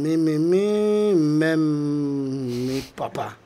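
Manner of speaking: hammed-up Chinese accent, repeating the syllables slowly; a light mock Chinese accent in a game. Guest does the phrase in a mock Chinese accent.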